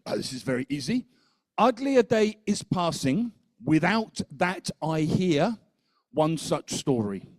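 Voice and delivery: put-on French accent. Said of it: "he spoke a very French kind of English".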